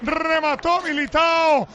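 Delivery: high, fast breathless recap; excited goal recap. Real, not acted. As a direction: still buzzing from the goal. Goal recap right after the score. (repaso emocionado del gol)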